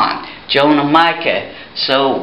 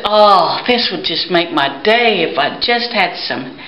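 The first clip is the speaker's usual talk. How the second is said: mule voice; 4 semitones higher than usual. Acted. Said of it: "And he said".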